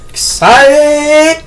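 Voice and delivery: high, slow, sing-song glee; excited. Real, not acted. Vlogger about to have pie, high excited sing-song. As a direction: stretch it out like a happy chant. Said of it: "I'm getting excited".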